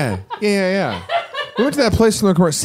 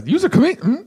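skeptical stranger; 14 semitones higher, faster than usual. Retold or imitated. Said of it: "No, I haven't".

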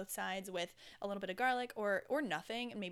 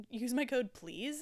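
loud plain plea; just ask them nicely to use it; sincere ask; 3 semitones higher, 6 dB louder, slower than usual. Shown as a demonstration. Podcaster correcting herself to a plain request. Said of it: "is what I meant".

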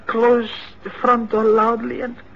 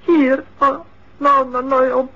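tearful; 2 semitones higher than usual. Acted. Father hears daughter is here.

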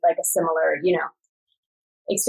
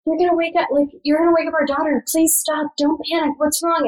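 mild retold yelling; 7 semitones higher than usual. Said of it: "I start yelling".

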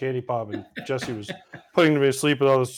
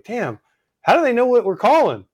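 higher, louder mock disbelief; baffled outburst; 7 semitones higher, 5 dB louder than usual. Opposing infield baffled by stolen calls, mock disbelief. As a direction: act stunned they cracked your calls.

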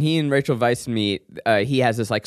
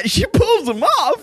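laughing; slower than usual. Real, not acted. Repeats friend's line, laughing.

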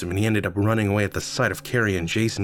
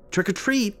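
excited cheer; 12 semitones higher than usual. Acted. Rachel bursts out grinning.

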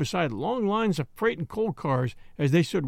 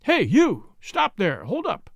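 a policeman shouting up at a passing cab; policeman's challenge; 5 semitones higher, 4 dB louder, slower than usual. Acted. Policeman on the sidewalk orders the cab to stop, loud shout. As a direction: bark it out loud from the sidewalk, rising high at the end. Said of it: "a hoarse voice challenged him".

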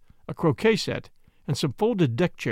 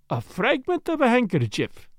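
higher-pitched, pondering character voice; musing; 6 semitones higher than usual. A narrator's reading. Detective weighing the doctor's suggestion, musing. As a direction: turn the idea over aloud. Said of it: "he mused".

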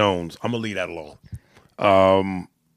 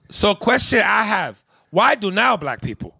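high-pitched Asian accent, louder; 9 semitones higher, 4 dB louder than usual. Shown as a demonstration. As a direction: read it in a broad Asian accent. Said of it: "do it in that Asian voice again".

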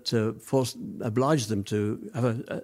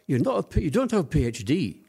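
imitated Glaswegian boss, pitched up; higher, mock-Scottish objection; Scottish accent; 5 semitones higher than usual. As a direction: quote the Scottish director in his accent. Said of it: "in his Scottish accent".

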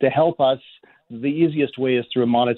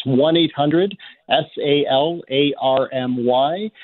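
phone number read out slowly, letter by letter; slower than usual. Real, not acted. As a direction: spell it out slowly with small gaps for listeners. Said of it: "again for us slowly".

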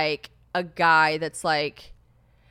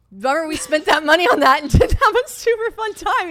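laughing mock grumble; 10 semitones higher, 11 dB louder than usual. Voicing James laughing at bummer.

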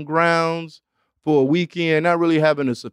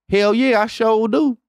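slang example; 7 semitones higher than usual. Retold or imitated. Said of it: "how do they use this".

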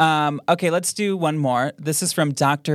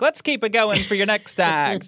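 lightly voiced show host, a bit higher; comedy show host; 6 semitones higher than usual. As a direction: introduce the next act like a host. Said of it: "like the host of a comedy show".

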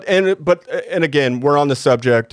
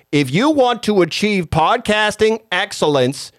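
RFK impression; 2 semitones lower than usual. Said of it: "I've been working on my R F K".

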